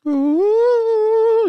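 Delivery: high ghostly ooh; spooky ghost ooh. Pretend. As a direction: wail it like a ghost. Spooky ooh after living dead.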